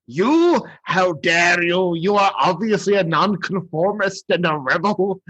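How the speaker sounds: high, slow outraged tyrant; a hammed-up indignant ruler; over-the-top Burgermeister. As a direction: splutter in pompous outrage. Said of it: "over the top the Burgermeister is".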